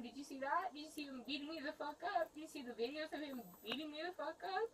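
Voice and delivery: real crying, words pushed out fast through tears; tearful pleading. Real, not acted. Beaten woman begging the officer to look, crying.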